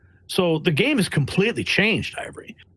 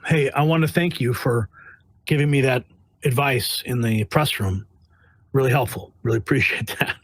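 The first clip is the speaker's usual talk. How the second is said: sarcastic thanks; 3 semitones lower than usual. Retold or imitated. Sarcastic thanks to press guys.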